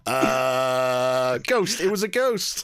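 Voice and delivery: high, drawn-out laughing denial; a small boy blaming a ghost; child's excuse. Retold or imitated. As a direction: beg off the blame like a cheeky kid. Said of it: "I didn't do it".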